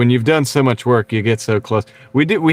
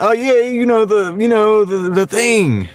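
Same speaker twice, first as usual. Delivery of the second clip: put-on high, halting elderly politician voice; Joe Biden impression; 9 semitones higher than usual. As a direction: imitate a president groping for the word, dragging out the end. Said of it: "That's my Joe Biden".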